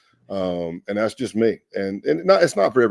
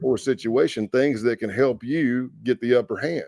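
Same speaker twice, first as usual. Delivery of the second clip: retold anger; 3 semitones higher than usual. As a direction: plead your case, mildly worked up. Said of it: "it made me so angry".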